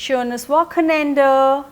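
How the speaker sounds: very slow, each syllable laid out for learners; slow teaching model. Shown as a demonstration. Teacher modelling a weekend goodbye for learners, slowly. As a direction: spell the German out slowly so students can copy. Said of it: "तो वो बोलेंगे".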